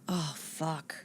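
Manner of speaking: under-the-breath whisper; whispered oh fuck. Real, not acted. Whispering when asked a tricky question. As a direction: whisper it, caught off guard.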